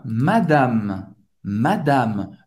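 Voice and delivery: "madame" closing on the M, final E silent; ends on M. Shown as a demonstration. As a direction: say "madame" with no vowel after the last M. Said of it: "Acaba no M".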